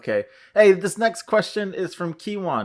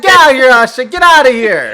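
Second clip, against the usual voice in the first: mock outrage; 9 semitones higher, 13 dB louder than usual. Real, not acted.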